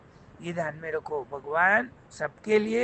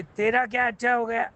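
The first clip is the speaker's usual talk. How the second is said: higher, pointed storytelling challenge; challenging question; 6 semitones higher, 4 dB louder than usual. Acted. King challenging his jailed prime minister, higher incredulous question. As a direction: question it with mock disbelief.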